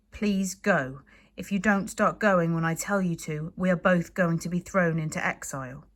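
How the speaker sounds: reasonable. Acted. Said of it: "as reasonably as he could".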